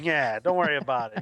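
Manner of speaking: talking around a cigar in the mouth; lazy words past a cigar in the mouth. Pretend. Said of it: "with a cigar in my mouth going".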